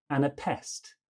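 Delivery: "anapest" kept light until a stressed PEST; soft, soft, hard. Shown as a demonstration. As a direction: lean only on the last syllable of "anapest". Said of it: "two soft, then one hard".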